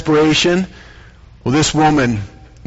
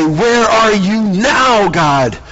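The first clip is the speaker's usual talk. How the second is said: higher, slow, drawn-out protest; anguished cry to God; 5 semitones higher, much slower than usual. Acted. Jairus crying out to God in despair, anguished. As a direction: throw it up at heaven.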